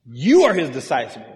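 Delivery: loud, accusing jab on YOU; mock-angry accusation; reviling. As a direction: throw it at him as an insult. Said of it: "they reviled him".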